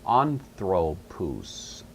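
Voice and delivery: "anthropous" drawn out syllable by syllable; slow sounding-out. Shown as a demonstration. Teacher showing a Greek word to students, slowly sounded out.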